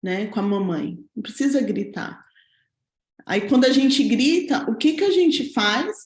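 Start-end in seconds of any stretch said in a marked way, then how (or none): 0.0-2.2 gentle correction. Retold or imitated. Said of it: "Aí eu falei assim".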